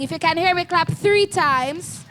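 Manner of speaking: three stretched, tune rising at the end; slow call with a rise. Shown as a demonstration. Teacher calling again, slow and rising. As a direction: ask it slow, lifting on times.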